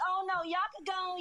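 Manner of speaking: high, quick mock male voice; effeminate young man. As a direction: rattle it off high, imitating a man without bass. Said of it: "Where is the bass in the voice?".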